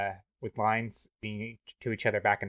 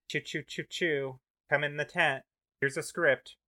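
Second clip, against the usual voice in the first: higher barker calling people in; carnival barker; 5 semitones higher than usual. Pretend. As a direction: call them into the tent.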